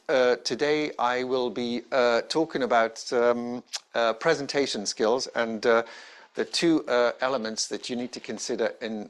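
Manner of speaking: mock talk stuffed with uh and um; full of fillers. Shown as a demonstration. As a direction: show a speaker tripping on non-words. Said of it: "So if you say".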